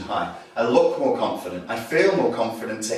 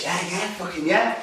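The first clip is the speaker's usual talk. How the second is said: mouthy aggression; 4 semitones higher, 3 dB quieter than usual. Acted. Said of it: "they're trying to give you all this".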